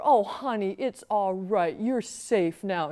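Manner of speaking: slow, soothing motherly reassurance; calm the frightened child down; a hint of a tender mother; comforting mom.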